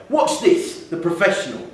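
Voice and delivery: high, loud show-off boast; boastful boy taking over the arcade game; cocky schoolboy. Acted. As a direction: brag like a kid who thinks he's a pro.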